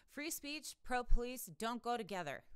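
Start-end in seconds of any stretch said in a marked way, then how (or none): 0.1-1.5 mock the slogan; sarcastic echo. Real, not acted.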